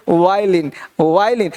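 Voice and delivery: वायलिन said low, starting on "waa"; model pronunciation. Shown as a demonstration. Teacher shows how to read it, low falling repeats. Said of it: "ऐसे पढ़ना है इसको".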